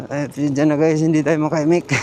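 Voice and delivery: talking over a rough ride; on a bumpy road. Real, not acted. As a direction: voice jolted by the bumps. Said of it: "Grabe ang lubak".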